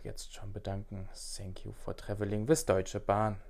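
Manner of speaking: lightly voiced train announcer; like a pilot on the intercom; Zugdurchsage. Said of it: "dass du das relativ gut imitieren kannst". (Durchsage wie ein Zugbegleiter)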